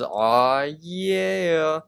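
mock relieved aw yeah, rising high; a happy relieved exclaim; relieved cheer. Mordecai relieved Benson won't yell, cheering. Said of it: "Mordecai says".

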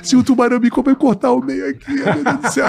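laughing fear. Retold or imitated. Fearing shark while laughing.

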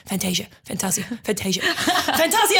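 mock hesitant commentator. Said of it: "small pause before he went to say the name".

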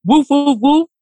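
lightly imitated dog bark; spoken woofs with some punch; Turbo. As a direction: bark like a guard dog in a human voice. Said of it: "Turbo was literally like".

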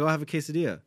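"I'll have a quesadilla", each word sharply pronounced; crisply enunciated "quesadilla", as a proper speaker orders; sharp enunciation. Retold or imitated. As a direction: imitate precise diction on "I'll have a quesadilla". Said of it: "it was very sharp on everything he says".

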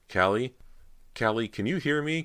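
high, urgent calling; frantic cry. A narrator's reading. Cody calls to her sister for help, frantic high cry. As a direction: call out desperately, pitch climbing. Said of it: "Cody cried frantically".

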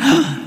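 high, sudden gasp of discovery; shocked gasp. Acted. Father spotting the damage in the bathroom, shocked gasp. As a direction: gasp as if caught by surprise.

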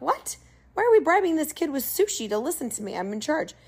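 high astonished what; a rising can't-believe-it outburst; incredulous. Retold or imitated. Instructor baffled at mom bribing kid, astonished. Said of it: "I'm like".

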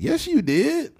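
high, sharp retort; sarcastic retort. Acted. Answering a fake apology, high sarcastic retort. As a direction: snap back high.

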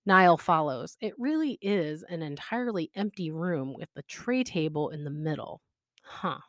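lightly voiced fanfic read-aloud; story reading. A narrator's reading. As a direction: read the story to your viewers, easy and lively. Reads fanfic aloud to viewers.

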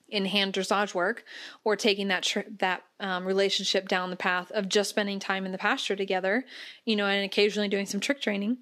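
tired, strained voice; voice giving out. Real, not acted. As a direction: voice wearing thin. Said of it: "Sorry, my voice is giving out".

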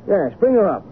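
high-pitched, rapt excitement; exalted artist, voice lifted high; feverishly inspired. Acted. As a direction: declare it like a man seized by a vision. Painter seized by inspiration.

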